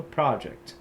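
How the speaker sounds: PROject, first syllable stressed; noun stress. Shown as a demonstration. Teacher giving students the American noun stress. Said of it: "geralmente no inglês americano".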